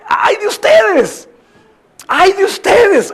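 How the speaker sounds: high, slow, drawn-out anguished cry; a preacher voicing Jesus's grieving warning; exclaimed lament. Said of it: "estos signos de exclamación son importantes".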